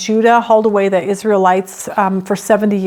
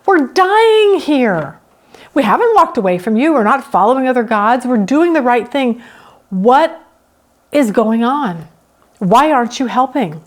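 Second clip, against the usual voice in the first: exasperated plea. Retold or imitated. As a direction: plead with God, fed up and dying. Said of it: "The psalmist is like".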